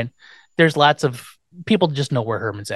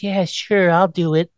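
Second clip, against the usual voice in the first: lightly imitated dim woman; a hint of a forced, put-on dumb voice; 4 semitones higher than usual. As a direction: mimic someone trying to sound dumb. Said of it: "you could tell it's very forced".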